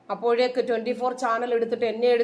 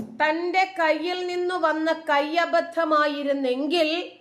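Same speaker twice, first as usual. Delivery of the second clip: higher, slow, drawn-out emphasis; emphatic rebuttal; 5 semitones higher, slower than usual. Real, not acted. Vlogger disputing the accident claim, emphatic. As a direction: press the point slowly at raised pitch.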